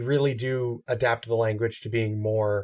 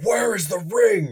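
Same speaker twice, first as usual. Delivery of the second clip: high, slow, forceful mock line reading; overdone intense demand; 9 semitones higher, 4 dB louder, slower than usual. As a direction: drag out the demand, far too strong. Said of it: "you're coming on a little strong".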